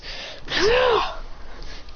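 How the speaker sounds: high, airy drawn-out exhale; power-up noise. Acted. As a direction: imitate a surge of energy with your breath. Sound of powering up.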